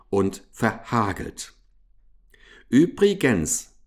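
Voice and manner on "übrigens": slightly raised, pensive doubt; doubtful. A narrator's reading. Hamster turning suspicious of mouse, doubtful. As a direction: raise it as a wary afterthought. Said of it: "sagte er bedenklich".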